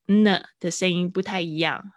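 ordinary talk, nothing marked

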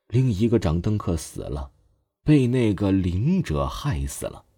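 put-on slow, measured old man; unhurried wise storyteller tone; slow and calm. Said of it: "老者缓缓地说着".

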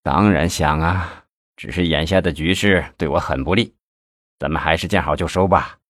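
downcast, subdued admission; dejected. A narrator's reading. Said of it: "又难过了起来".

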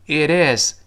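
"It is" joined with a softened t; linked reading. Shown as a demonstration. Teacher explaining liaison, "It is" linked. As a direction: run "It is" together as "idiz". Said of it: "依然连读".

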